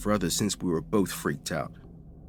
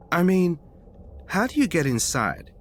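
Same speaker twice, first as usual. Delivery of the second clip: retelling the professor's urgent question, alarmed; 8 semitones higher than usual. Retold or imitated. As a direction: press him, half alarmed.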